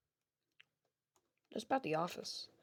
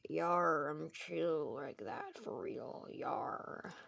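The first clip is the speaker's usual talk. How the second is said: Foxy's pirate voice; 4 semitones lower, 5 dB quieter, much slower than usual. Acted. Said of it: "He's like".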